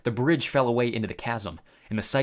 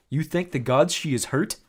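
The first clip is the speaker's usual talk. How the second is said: puzzled Tyson; 4 semitones higher than usual. A narrator's reading. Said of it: "he asked, puzzled".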